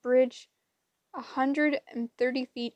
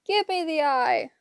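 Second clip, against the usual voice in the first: higher, louder hag wail; 5 semitones higher, 4 dB louder than usual. A narrator's reading. Wasp wailing for her lost eye. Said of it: "Wasp wailed".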